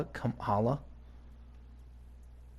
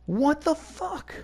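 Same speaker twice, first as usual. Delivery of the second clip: real furious yell; slower than usual. Real, not acted. Player yelling at companion Vivienne for killing the Hala, real fury. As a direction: demand an answer, furious.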